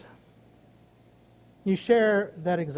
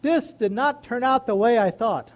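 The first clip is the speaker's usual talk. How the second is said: raised, earnest plea to God; prayer to God; 4 dB louder than usual. Retold or imitated. Retelling his prayer, an earnest plea to God. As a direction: pour the complaint out to God, then settle. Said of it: "I go to my God and I say".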